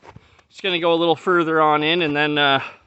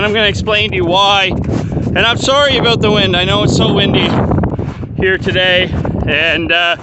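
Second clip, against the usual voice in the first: raised voice against the wind; shouting over wind; 2 semitones higher, 3 dB louder than usual. Real, not acted. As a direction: speak up over gusty wind. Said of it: "That's why I'm talking so loud".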